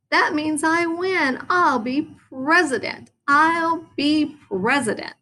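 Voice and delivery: high excited yelled boast. A narrator's reading. Froggy on his chair yelling to the class, excited. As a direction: shout the wrong sum proudly. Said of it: "jumped up on his chair and yelled".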